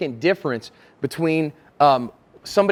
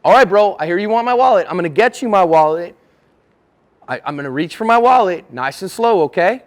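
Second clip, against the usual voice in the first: raised voice, placating a robber; emphatic, agreeable and loud; clear, announced compliance; 5 dB louder than usual. Acted. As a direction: announce each move loudly to the mugger. Demonstrating compliance with an armed robber.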